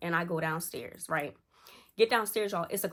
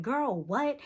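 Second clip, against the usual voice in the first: incredulous; 6 semitones higher than usual. Retold or imitated. Sister's incredulous retort.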